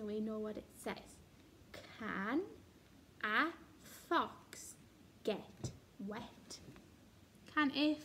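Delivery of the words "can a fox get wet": whisper. Shown as a demonstration. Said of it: "teacher reading caption softly".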